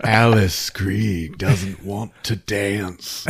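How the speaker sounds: slow, lightly put-on creepy child voice; imitating Alice Krieg. Mocking how the actress delivers her line, slow. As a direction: drag it out like an eerie little kid. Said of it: "That's what she sounds like".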